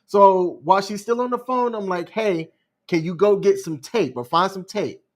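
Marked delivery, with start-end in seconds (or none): 2.1-5.0 calmly retold, even-voiced request. Asking her for tape while she's on the phone, calm. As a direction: ask evenly, keeping it calm. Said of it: "Like, I'm talking calm".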